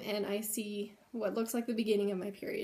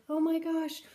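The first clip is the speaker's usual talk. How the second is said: high, bright burst of excitement; high-pitched excited gasping; excited squeal; 6 semitones higher, 4 dB louder than usual. Retold or imitated. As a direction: squeal it like you can't believe your luck. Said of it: "and I was so excited".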